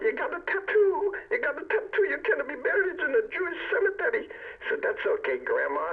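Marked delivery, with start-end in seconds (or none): 0.0-4.3 very high, seagull-like, squawking grandmother voice. Retelling a man's story about his grandmother: squawking Jewish grandmother voice. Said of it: "She sounds like a Jewish seagull".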